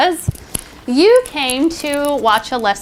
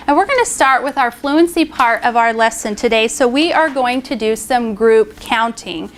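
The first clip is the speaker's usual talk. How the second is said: put-on bright classroom teacher voice, addressing young pupils; teacher voice to class. Shown as a demonstration. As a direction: call the class to attention like a primary teacher.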